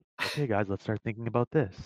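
calm, robotic put-on voice. Showing how calls sound to the team: calm robotic Bob Ross-style voice. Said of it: "like Bob Ross style where I'm like".

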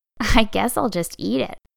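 grinning, smiling tone. A narrator reads a little rabbit answering his friend after show and tell, said with a grin. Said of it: "Little Rabbit said with a grin".

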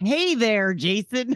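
put-on Texas accent. Restarting the show's greeting, the speaker greets the others: put-on texas accent. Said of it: "She's going with this like Texas thing".

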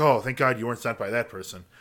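ordinary talk

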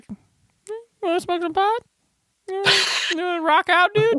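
very high, laid-back, casual buddy voice. Imitating Satan inviting someone to hang out: Satan voice like a chill buddy. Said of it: "Satan's like".

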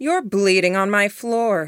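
affronted, gravely offended, indignant. The Mouse Queen to the bleeding narrator, as if gravely offended. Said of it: "as if it was a grave offense I'd committed".

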